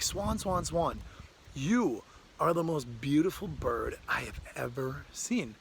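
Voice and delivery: gushing praise, drawing out YOU; awed admiration. Acted. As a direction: call out eagerly, then marvel. Crow gushes to the swan.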